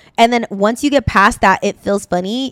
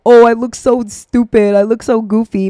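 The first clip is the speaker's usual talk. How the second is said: self-conscious student; 4 dB louder than usual. Retold or imitated. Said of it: "thinking, like".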